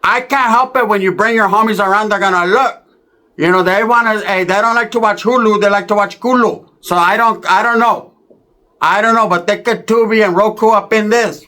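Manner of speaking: tia's boastful voice. Retold or imitated. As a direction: brag lightly about your body. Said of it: "my dad's coming out".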